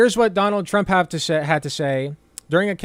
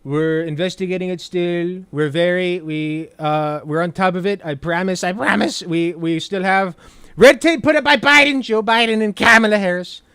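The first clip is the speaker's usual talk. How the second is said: lightly voiced, reassuring Trump; smooth it over like a politician; a hint of calm Trump promising; Trump impression; 4 dB louder than usual. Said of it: "the Donald Trump I know would be like".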